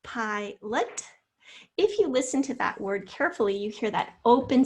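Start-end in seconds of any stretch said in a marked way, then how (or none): 0.0-1.0 PILOT said as two separate syllables; split into syllables. Shown as a demonstration. Teacher shows fourth graders the syllable boundary, word split in two. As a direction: say PILOT in two parts, pi and lot. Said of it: "to divide our syllables".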